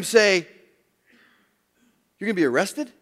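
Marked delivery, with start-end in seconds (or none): 2.2-2.9 rising, unsure question; disbelieving question. Shown as a demonstration. Preacher mocking how listeners hear Jesus, rising question. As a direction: ask it as if you can't believe it. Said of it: "Jesus didn't say it this way".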